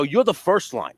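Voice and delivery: high-pitched comic indignation; exasperated mocking rant. Tony belittling friend's front line claim, exasperated mocking rant.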